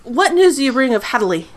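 curt, brisk question; abrupt demand. Acted. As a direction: cut straight to business. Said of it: "I'm abrupt".

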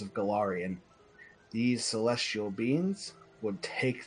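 measured game master's book reading; reading lore aloud. Acted. Game master reading the glowing paragraph to players, storybook narration. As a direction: read out an old holy text, slightly lifted.

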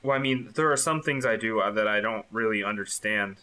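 flustered receptionist, hesitant; nervous receptionist. Acted. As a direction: stammer out evasive answers. GM plays the morgue receptionist.

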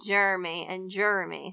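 "Jeremy" squeezed to JER-mee; "Jeremy" run together as two syllables. Shown as a demonstration. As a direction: drop the middle vowel of "Jeremy". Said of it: "his name pronounced a couple of ways".

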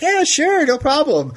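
high, breezy mock-casual yes; easygoing celebrity. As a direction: toss it off like a relaxed star. Voicing the celebrity agreeing.

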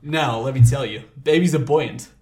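lightly put-on politician's pronouncement; Donald Trump. Telling listeners about the buoyant baby, light Trump impression. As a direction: hold forth with a touch of campaign bluster. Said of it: "This does sound like Donald Trump".

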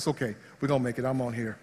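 fast, soft murmur to himself; hurried calming words under the breath; muttering comfort during turbulence. Retold or imitated. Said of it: "I say in my breath".

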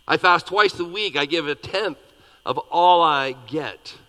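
a loud, self-satisfied Pharisee praying aloud; proud Pharisee. Acted. Pharisee prays about himself, loud and boastful. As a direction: boast to God, puffed up.

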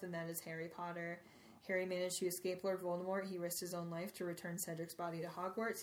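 steady, solemn read of a speech; reading aloud. Acted. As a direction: read it like a headmaster's address. Reads Dumbledore's speech aloud.

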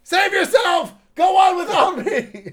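high, hammy heroic cry; overacted death scene. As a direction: cry out like a dying hero in a bad film. Mock movie rescue plea.

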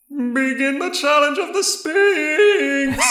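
slow, high, sung booming proclamation; magically amplified voice. Acted. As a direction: chant it out from the sky. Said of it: "Fallow's voice ring out one more time".

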